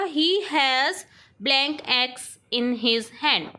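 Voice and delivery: very slow, word by word dictation. Shown as a demonstration. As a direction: read it out slowly for the class to write. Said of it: "teacher dictates sentence". (धीमे-धीमे बोलकर लिखवाना)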